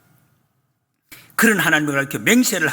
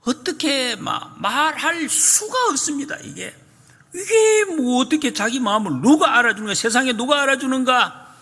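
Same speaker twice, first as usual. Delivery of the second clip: frustrated Job; 8 semitones higher than usual. Retold or imitated. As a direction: voice Job's helpless frustration, pleading upward. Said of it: "욥은 참으로 답답합니다". (답답한 욥의 하소연, 높고 느리게)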